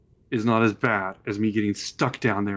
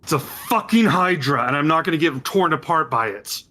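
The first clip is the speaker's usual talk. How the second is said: frightened outburst; 6 semitones higher, 3 dB louder than usual. Acted. NPC snaps back under pressure.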